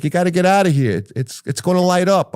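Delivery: high-pitched imitated alarm; retold urgent warning. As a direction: push the warning up high, pressing. Jerry urging escape from fire.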